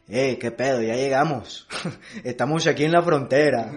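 a lightly done fake Mexican accent, as an American show does it; mock a gringo-written Michoacán hitman's Mexican accent. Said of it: "un sicario de Michoacán habla así".

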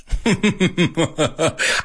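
high-pitched put-on giggle; high cartoon chuckle. Shown as a demonstration. Teacher finishing a cartoon-mouse demo, high chuckle.

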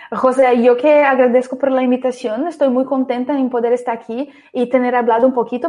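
Spanish with a Brazilian Portuguese accent; non-native Spanish accent. Real, not acted. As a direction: speak Spanish as a Brazilian learner. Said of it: "Pido perdón por mi español".

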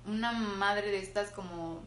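talking while chewing a sandwich; mouth full. Real, not acted. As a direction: speak through a mouthful of food. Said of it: "es que estoy comiendo".

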